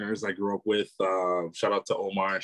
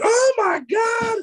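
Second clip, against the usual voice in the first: high, slow astonished squeal; excited shriek; 6 dB louder, much slower than usual. Retold or imitated. Vlogger woman at the market touching the fabric, squealing. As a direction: squeal it out like a stunned shopper. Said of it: "She was like".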